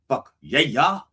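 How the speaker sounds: "yeah, yeah" stretched into extra syllables. Shown as a demonstration. Preacher feeling good, tacking extra syllables onto "yeah". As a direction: add a bonus syllable after "Fuck yeah". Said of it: "add extra syllables when I'm feeling good".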